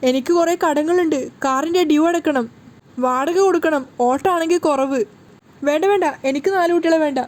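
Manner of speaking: begging in a nightmare; a husband panicking in a bad dream; wailing in sleep. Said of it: "Sachi ഉറക്കത്തിൽ നിലവിളിക്കുകയാണ്".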